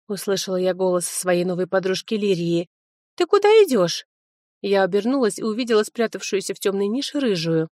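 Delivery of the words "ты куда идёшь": high, louder, eager question; a bubbly young friend calling; excited girlfriend. Acted. Liria asks Sofia where she is going, high and eager.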